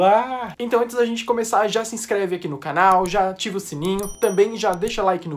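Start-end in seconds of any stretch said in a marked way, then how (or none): 0.0-0.5 loud, drawn-out "ah" of anticipation; excited cry. Real, not acted. YouTuber bursting to watch the trailer, excited cry. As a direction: let out an excited squeal. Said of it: "muito, muito animado".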